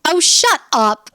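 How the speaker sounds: drawn-out, slow scornful dismissal; mock outrage. Real, not acted. Host scoffing at the show hosts wanting credit, slow and scornful. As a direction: stretch it out in disbelief. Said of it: "reacting to hosts wanting credit".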